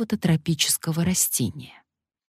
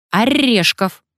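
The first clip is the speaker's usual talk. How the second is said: parrot demand; 6 semitones higher, 5 dB louder, slower than usual. A narrator's reading. Parrot demands nuts again.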